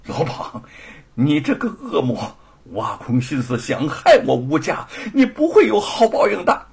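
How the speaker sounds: mild, hateful accusation; bitter anger. Acted. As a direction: curse the villain. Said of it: "愤恨至极". (愤恨地指责)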